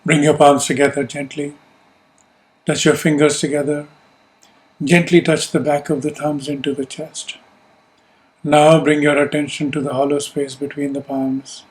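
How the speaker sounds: calm, measured meditation guidance; unhurried instructions with long pauses to let them settle; guided meditation. Real, not acted. Teacher settling a group into yoga nidra, calm guided meditation.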